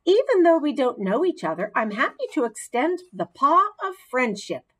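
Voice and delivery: high, fast little squeak of a voice; a small pet hamster trying to sound friendly; squeaky hamster voice. A narrator's reading. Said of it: "I squeaked a bit louder this time".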